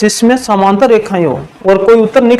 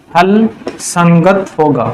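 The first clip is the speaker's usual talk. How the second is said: slow dictation; 3 semitones lower, much slower than usual. Real, not acted. Dictating the conclusion while writing.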